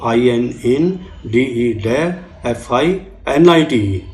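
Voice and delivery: "आई एन इन, डी ई डे" spelled out in chunks; syllable-by-syllable spelling. Shown as a demonstration. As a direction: count the syllables of the word on your fingers. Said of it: "अंगुलियों पे याद कर लो".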